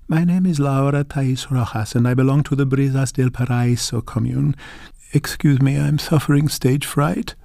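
mildly shaky, apologizing for stage fright; understated tremble in an elderly woman's voice; quavering. Acted. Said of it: "the voice quavered again".

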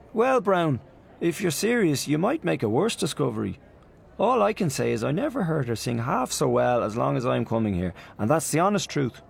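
put-on high, eager gushing young man; Freddy Malins. Freddy gushing to Aunt Julia, high eager voice.

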